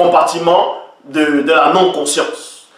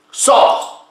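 high cry; 8 semitones higher than usual. Acted. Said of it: "Vous voyez".

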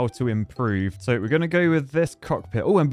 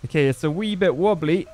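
slipping into a light Scottish accent; a quick unplanned Scottish lilt on the words; 4 semitones higher than usual. Real, not acted. Narrating a wobbly plane in a hint of Scottish. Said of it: "I don't know why I went Scottish then".

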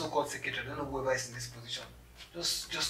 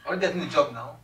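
louder, pressing question; insistent demand; 7 dB louder than usual. Acted. Impatient applicant asking the secretary about the job, insistent. Repeats question after being hushed.

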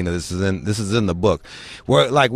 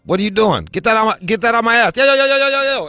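high frantic protest, building to repeated cries; acted alarmed protest; 10 semitones higher, faster than usual. Homeboy objecting to the medics' exam, mock panicked protest. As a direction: imitate a friend protesting in rising alarm.

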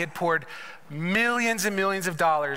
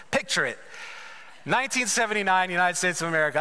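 put-on Sophia Petrillo accent; faster than usual. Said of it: "in my best Sophia Petrillo accent".

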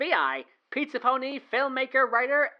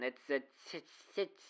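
trailing off; 15 dB quieter than usual. Acted. Trails off, disturbed memory.

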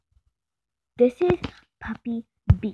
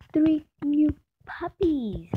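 drawn-out excited; 2 semitones higher, much slower than usual. Real, not acted. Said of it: "repeated phrase".

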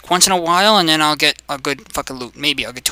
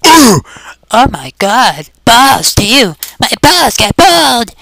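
high, loud hammed-up reaction; mock wailing; 8 semitones higher, 5 dB louder, slower than usual. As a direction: cry out high in mock alarm. Mock reaction to big hit.

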